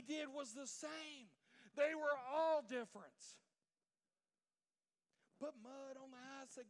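high-pitched, worked-up sermon delivery; impassioned preaching. Real, not acted. Preacher arguing Jesus was outside the box, fervent high preaching. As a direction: preach it with rising urgency.

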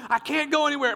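high-pitched acted panic; mock screaming. Preacher retelling the wasp attack with no way out, mock screaming. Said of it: "and I am screaming".

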